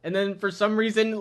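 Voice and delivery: ordinary delivery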